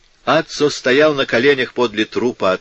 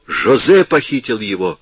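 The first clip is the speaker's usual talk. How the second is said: exclaiming; 4 dB louder than usual. Acted. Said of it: "воскликнула она".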